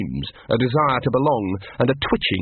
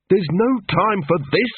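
snarled; 7 semitones higher than usual. Acted. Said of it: "snarled Angua".

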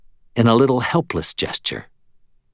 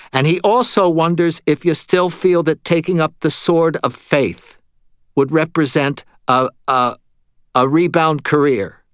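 higher, louder, halting toward the end; relaying medium; 7 semitones higher, 5 dB louder than usual. Acted. Medium repeats the ghost's question to Murphy, higher hesitant voice. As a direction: relay it pitched up, hesitating before the last phrase.

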